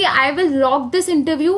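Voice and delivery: confident self-talk. Shown as a demonstration. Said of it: "कहो कि".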